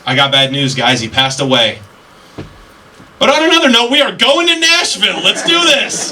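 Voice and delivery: giggly high voice planning a Nashville party; bachelorette party friend. Retold or imitated. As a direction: fake grief flipping into squealing excitement. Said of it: "she's like".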